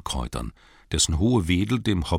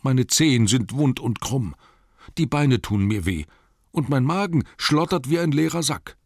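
high-pitched whiny hobbit complaint; whining Bilbo; 8 semitones higher, 4 dB louder than usual. Acted. Footsore, hungry hobbit complaining to his companions, whining. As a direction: wail about aches in a much higher voice.

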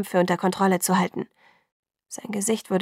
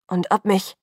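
blurted out; 4 dB louder than usual. A narrator's reading. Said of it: "stieß er hervor".

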